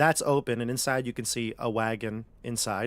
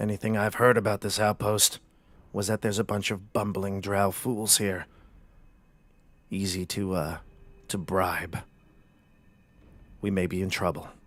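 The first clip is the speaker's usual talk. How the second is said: speaking low and quietly; 3 semitones lower than usual. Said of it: "he says it low".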